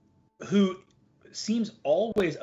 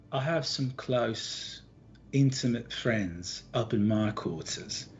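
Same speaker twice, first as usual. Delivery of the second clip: inviting Gardy; 5 semitones lower, 3 dB quieter than usual. Acted.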